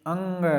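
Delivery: अंग with the air through nose and mouth; nasal vowel. Shown as a demonstration. Teacher says अंग to show a nasal vowel. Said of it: "जैसे आप बोलते हो अंग".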